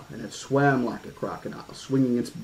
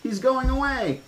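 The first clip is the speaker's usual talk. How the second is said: put-on very high gleeful girl's squeal; delighted kid, voice shooting up; 13 semitones higher than usual. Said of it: "Lex squealed".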